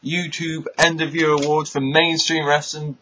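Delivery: high, loud hammy comic host; old borscht belt comic. Acted. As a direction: ham it up like a cheesy comic. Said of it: "here's your host, Hippie Killer!".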